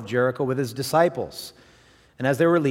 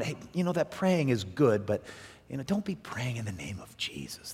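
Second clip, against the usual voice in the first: hushed warning; 6 dB quieter than usual. Retold or imitated. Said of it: "But I was warned".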